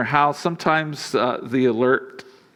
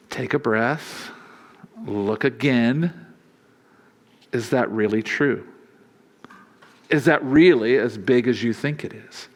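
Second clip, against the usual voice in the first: gentle and loving; 2 semitones lower than usual. Acted. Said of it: "God lovingly says".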